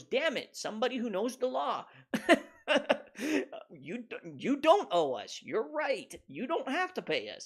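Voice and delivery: flustered collector. Retold or imitated. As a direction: play the beaten collector, whiny. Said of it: "the collection agency goes".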